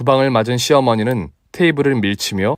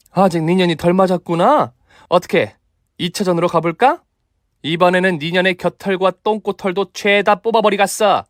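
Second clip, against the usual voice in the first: menacing threat; 7 semitones higher than usual. Acted. Mother threatens round two.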